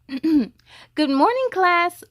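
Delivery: slow, drawn-out good morning; teacher greeting. Acted. Teacher greeting her first graders, slow and bright.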